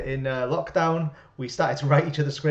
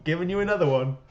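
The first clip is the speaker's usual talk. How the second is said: higher, louder mock host voice; addressing fake fans; 4 semitones higher, 4 dB louder than usual. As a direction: play to an imaginary crowd of fans. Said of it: "address the fake fans".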